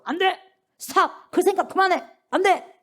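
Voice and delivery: sharp, high command to stop; firm command. Acted. Spirit stopping a sinful thought, firm high command. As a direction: cut it off firmly, pitch jumping up. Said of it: "단호하게 말할 수 있는".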